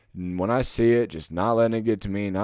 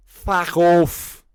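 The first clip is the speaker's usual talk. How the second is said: angry shout; 5 semitones higher, 7 dB louder than usual. Real, not acted. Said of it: "I'll say it right here".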